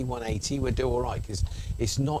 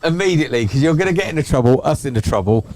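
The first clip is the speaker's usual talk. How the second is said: loud mock telling-off; 7 dB louder than usual. Real, not acted. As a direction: tell him off for a joke.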